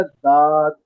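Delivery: ضاد said as داد, a thickened D; mistaken heavy daad. Shown as a demonstration. Teacher showing students the common mistake, thickened D in داد. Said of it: "موٹا کر دیتے ہیں دال کو، وہ داد پڑھ دیتے ہیں".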